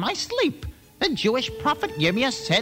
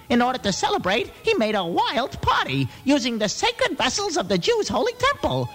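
panicked king; 8 semitones higher than usual. Acted.

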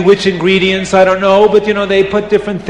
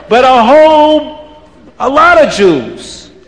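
gloating witch. Acted. Witches eyeing the crowd, gloating in a raised voice.

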